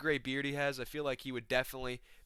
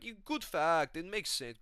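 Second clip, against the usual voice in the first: lightly voiced gullible pal, higher; Shamil; 4 semitones higher, slower than usual. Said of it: "And Shamil's like".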